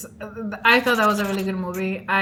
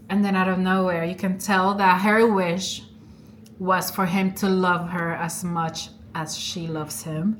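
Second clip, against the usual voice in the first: ordinary talk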